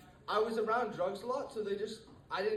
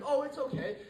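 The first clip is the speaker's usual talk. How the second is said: higher-pitched, easygoing grandma impersonation; unconcerned grandma; 5 semitones higher than usual. Retold or imitated. Grandma reassuring her grandchild about the edibles, unconcerned. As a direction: wave it off like an untroubled grandma. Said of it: "She wasn't even, like, concerned".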